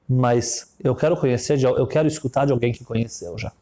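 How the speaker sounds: low, condescending rich man; rich man's voice. Retold or imitated. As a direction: talk down to the child, low and sure. Rich man questions the afterlife.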